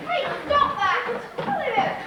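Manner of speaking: high, loud scolding; loud, high-pitched outrage; indignant shout. Acted. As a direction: yell at them to stop. Telling off someone mid-mischief.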